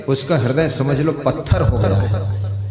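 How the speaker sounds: ordinary delivery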